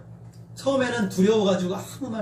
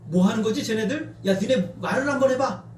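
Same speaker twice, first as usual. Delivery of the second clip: higher-pitched jeer as it builds; acted taunt, climbing in pitch; dismissive mocking; 5 semitones higher than usual. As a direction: goad them with open disdain. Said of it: "조롱하고 무시하고".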